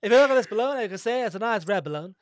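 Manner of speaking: jolly posh balloonist, lightly put on; hearty old aviator showing off his balloon; old-timey pilot voice. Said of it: "really stuck into that pilot voice".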